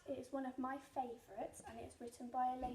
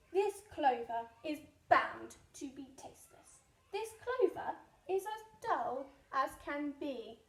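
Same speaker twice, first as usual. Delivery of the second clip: scornful rat; 6 dB louder than usual. Acted.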